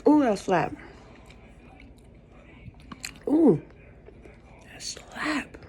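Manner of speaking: high delighted ooh over food. Real, not acted. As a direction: savor the taste, high and delighted. Reacting to tasty soup.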